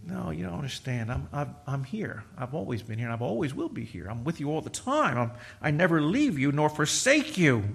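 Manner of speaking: soft, low reassurance as the Lord; quiet, tender voice of comfort. Acted. Lord comforts grieving Mary.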